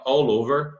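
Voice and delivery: "All over" run together as one word; linked "All over". Shown as a demonstration. Teacher showing how "All over" can be joined, linked without a gap. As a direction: join the L of "All" straight onto "over". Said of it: "que você pode juntar".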